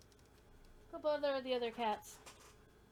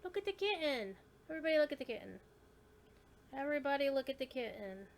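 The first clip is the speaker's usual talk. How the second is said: excited; 3 semitones higher, 4 dB louder than usual. Real, not acted. Showing kitten to viewers.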